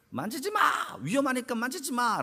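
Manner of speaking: high-pitched cry of warning, held back in volume; mock parental yell. Parent warning a child off a dangerous object, mock yell. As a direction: imitate a parent calling out urgently. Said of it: "소리를 지르지 않겠습니까".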